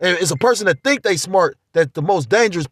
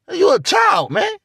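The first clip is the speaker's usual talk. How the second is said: exasperated scolding; 9 semitones higher, slower than usual. Retold or imitated. Retelling how he scolds a young man, in a raised exasperated voice. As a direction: tell him off like he's a kid.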